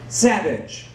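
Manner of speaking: "Savage" with a v, said flat as settled; wrong pronunciation. Retold or imitated. Teacher settling on the wrong name, "Savage" flat. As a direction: state "Savage" like the English word. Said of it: "how do you say your last name".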